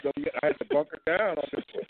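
muffled bad phone line; garbled like a bad connection; underwater. Real, not acted. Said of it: "You sound like you're underwater".

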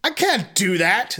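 mild slow shout; half-hearted father shout. Acted. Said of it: "the father shouted".

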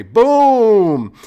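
loud, high triumphant shout; gleeful boom. Real, not acted. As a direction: slam it down like a mic drop. Triumphant mic-drop exclamation.

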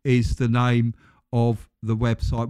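stiff robotic announcement. Shown as a demonstration. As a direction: read it out like a machine. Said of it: "Why do I always go robotic at the end of the podcast".

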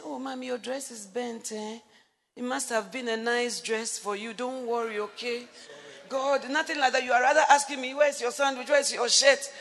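sympathetic, soothing husband voice; caring husband. Shown as a demonstration. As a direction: show how he should have comforted her. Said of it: "That's not how to say it".

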